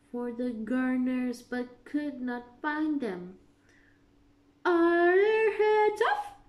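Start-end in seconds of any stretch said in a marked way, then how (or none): 4.6-6.4 high, loud demand; queen's shout. A narrator's reading. Queen shouts to her men, demanding. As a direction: bellow the question. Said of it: "shouted the queen".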